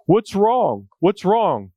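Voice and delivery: worried brother. Retold or imitated. Brother asks the hiding boy.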